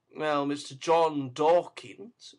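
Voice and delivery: ordinary delivery, nothing marked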